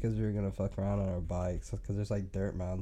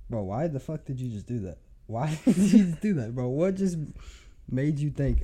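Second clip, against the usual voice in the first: incredulous rant; 5 semitones higher, 5 dB louder than usual. Retold or imitated. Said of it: "I was like".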